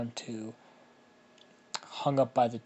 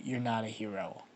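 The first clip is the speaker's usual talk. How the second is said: resigned self-talk; 5 dB quieter than usual. Acted. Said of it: "Ben sighs and he just says".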